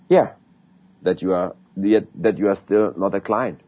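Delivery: a cheeky close to the customer; punchline delivery. Shown as a demonstration. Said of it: "Or I have a funny one too".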